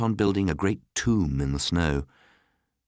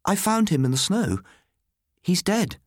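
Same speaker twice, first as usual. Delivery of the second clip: high-pitched crying out; child's cry; 13 semitones higher than usual. A narrator's reading. Child tells Martha of finding the body, crying out high. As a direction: break the news in a high, urgent cry. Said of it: "I cried as she approached".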